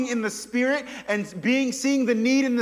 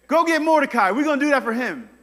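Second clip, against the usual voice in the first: king's order; 4 semitones higher, 5 dB louder, faster than usual. Retold or imitated. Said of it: "king commands".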